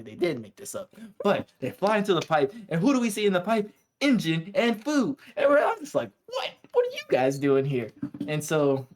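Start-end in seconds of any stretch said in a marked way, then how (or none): 1.2-7.9 breathless, rushed excited telling; out of breath. Real, not acted. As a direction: talk while short of breath. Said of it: "I gotta catch my breath".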